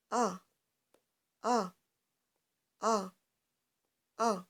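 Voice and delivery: A with the mouth wide open, held; open A drill. Shown as a demonstration. Teacher repeating the open-mouthed A for the class. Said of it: "J'ouvre ma bouche comme ça et je prononce A".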